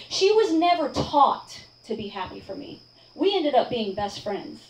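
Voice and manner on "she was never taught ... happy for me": measured emphasis on "never taught"; emphatic. Real, not acted. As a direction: make the point firmly without raising the volume. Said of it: "to say this very emphatically".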